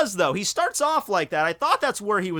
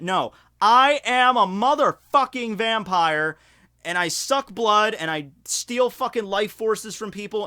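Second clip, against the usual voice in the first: emphatic believer; 3 semitones higher than usual. Retold or imitated. Voicing Larry's belief.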